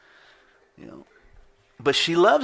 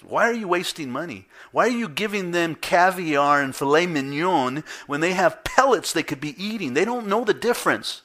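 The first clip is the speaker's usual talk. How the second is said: mock old scolding; 6 semitones higher, 5 dB louder than usual. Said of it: "In my old nature, I would have said".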